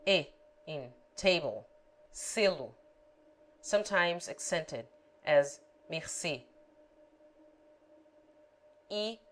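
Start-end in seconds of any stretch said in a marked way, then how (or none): 2.1-6.4 "Selo" and "mercê" with close e; Portuguese example words. Shown as a demonstration. Tutor demonstrates the close Portuguese e. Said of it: "E close".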